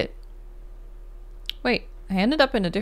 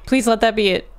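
loud frightened pleading; terrified, begging it to end; scared horror game streamer; 5 semitones higher, 3 dB louder than usual. Real, not acted. Panicking during horror chase.

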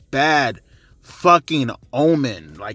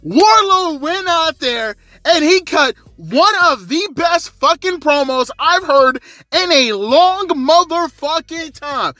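much higher, loud, fired-up ranting; real excitement, pitched way up and loud; hyped up; 13 semitones higher, 3 dB louder than usual. Real, not acted. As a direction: gush about him like you can't contain it. Hyped rant about Wardlow's promo.

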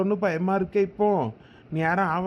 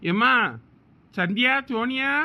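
raised calling voice; 5 semitones higher than usual. Acted. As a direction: call out to find them. Husband calls for family at home.

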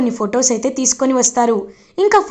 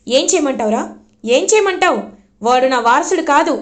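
angry retort; 3 semitones higher than usual. Acted. Mother argues back with son.

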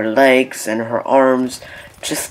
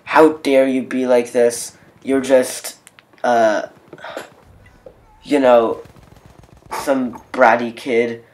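mild mock indignation, slow and a touch louder; imitating pissed woman; 4 dB louder, slower than usual. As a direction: lightly act out a scolding lady. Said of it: "now she gets really pissed".

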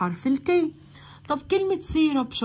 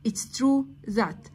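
slowly, word by word: "it's true that"; slow model phrase for learners; slow drill; much slower than usual. Shown as a demonstration. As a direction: spell it out slowly for the class.

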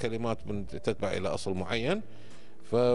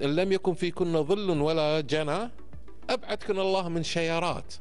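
poem recitation; 3 semitones higher than usual. Shown as a demonstration. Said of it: "فقالت".

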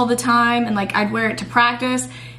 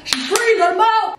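"free" squealed much higher and louder; squealed release; 11 semitones higher, 4 dB louder than usual. Real, not acted. To the camera after freeing her hair, high gleeful squeal.

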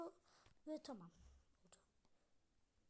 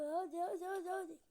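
rapid eager hadi repeated, a bit louder; excited urging; 3 semitones higher, 6 dB louder than usual. Real, not acted. Gamer urging the jump, eager. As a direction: push the character on with energy.

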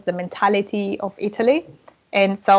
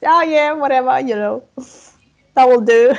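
carefree; 4 semitones higher, 5 dB louder than usual. Retold or imitated. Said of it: "I was just taking it easy".

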